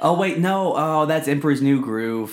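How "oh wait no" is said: hushed sudden realization; whispering. Real, not acted. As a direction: whisper it as it dawns.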